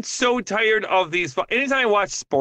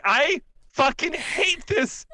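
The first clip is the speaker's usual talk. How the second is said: mock frustrated; 7 semitones higher, slower than usual. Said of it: "and be like".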